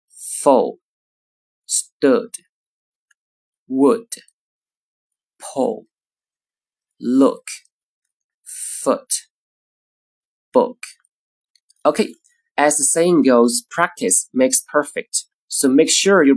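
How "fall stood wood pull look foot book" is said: each word with a short lax u; short vowel words. Shown as a demonstration. Teacher reading short-vowel words. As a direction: clip the vowel in every word. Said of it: "再看短音的词".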